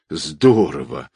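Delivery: impressed, savoring the word; admiring. A narrator's reading. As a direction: stretch the word out in awe. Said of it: "восхищённо сказал шофёр".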